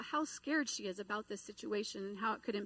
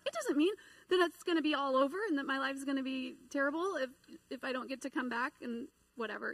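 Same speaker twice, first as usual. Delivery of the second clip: excited rush; 4 semitones higher, 3 dB louder, faster than usual. Retold or imitated. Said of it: "She gets all excited".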